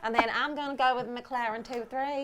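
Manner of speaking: put-on Texas accent. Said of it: "that is our awful accent".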